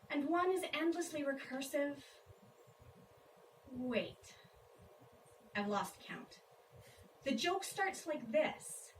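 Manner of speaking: measured poetry reading with lifted openings to each phrase; poem recitation. Acted. Poet tells an audience an absurd elephant joke, poem recitation. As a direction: deliver it in separate lines, pausing between each. Reads a comic poem aloud.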